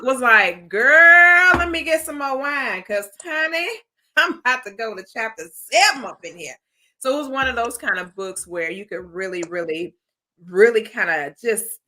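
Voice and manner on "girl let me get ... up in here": high, loud and gushing; sassy excited girlfriend. Retold or imitated. A reader telling her girlfriend, sassy and thrilled. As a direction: girlfriend hyped over a page turner. Gushing over gripping book.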